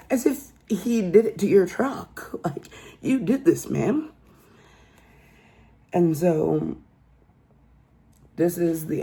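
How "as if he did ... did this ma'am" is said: mocking sarcasm. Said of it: "mocking the woman directly".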